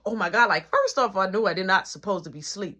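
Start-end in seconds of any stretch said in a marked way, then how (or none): 0.1-0.5 startled gasp into an oh-my-God; mild mock panic; retold panic. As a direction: act out waking with a jolt. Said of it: "I got up out of panicness".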